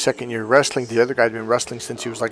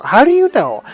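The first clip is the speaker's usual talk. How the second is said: higher, louder disbelieving question; incredulous challenge; 11 semitones higher, 6 dB louder than usual. Retold or imitated. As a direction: challenge him, can't believe he quit. Challenging teammate who gives up.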